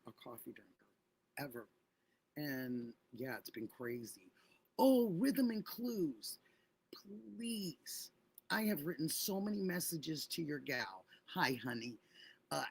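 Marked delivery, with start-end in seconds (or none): 4.8-8.1 pleading whisper. Real, not acted.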